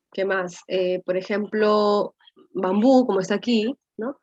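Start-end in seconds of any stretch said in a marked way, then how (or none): 2.5-3.1 "bambú" with a louder, stressed final bú; stress on final syllable. Shown as a demonstration. Teacher giving an example of an aguda, "bambú" stressed on the end. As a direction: push the voice onto the bú of "bambú". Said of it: "cuando hay una fuerza de voz".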